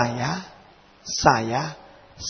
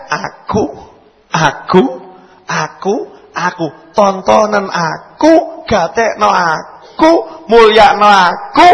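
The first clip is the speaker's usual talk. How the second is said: self-centred inner voice; 3 semitones higher, 3 dB louder than usual. Acted. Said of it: "zikirnya kebanyakan orang".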